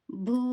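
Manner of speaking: భూ with air released on the consonant and a long oo; aspirated long vowel. Shown as a demonstration. Teacher introduces the aspirated letter, drawn-out breathy భూ. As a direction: let breath out into a held భూ. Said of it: "గాలిని బయటికి వదులుతూ".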